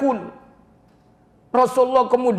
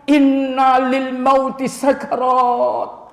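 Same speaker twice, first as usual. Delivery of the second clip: stretched Arabic, very slow; slow solemn recitation; 3 dB louder, much slower than usual. Acted. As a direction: intone each word slowly. Prophet's words quoted.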